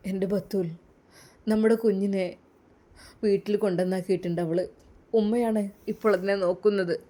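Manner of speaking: husband telling his wife the sad news; sad Usthad. Acted.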